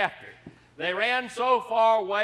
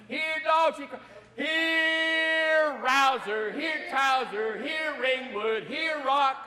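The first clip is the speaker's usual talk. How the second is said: calling the dogs; 6 semitones higher, slower than usual. Acted. Wiley calls his dogs.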